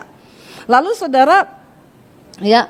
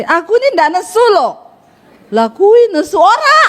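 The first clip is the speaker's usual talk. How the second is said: mock quarrel; 4 semitones higher than usual. Acted quarrel over being angry.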